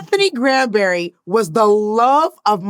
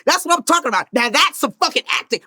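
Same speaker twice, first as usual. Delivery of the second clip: shouted, higher proud cheer; dad going off; 6 semitones higher, 3 dB louder than usual. Retold or imitated. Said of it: "My dad went off".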